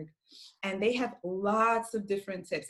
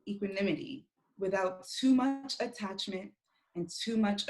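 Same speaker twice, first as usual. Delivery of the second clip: prayer reading. Acted. Reads a Buddhist prayer.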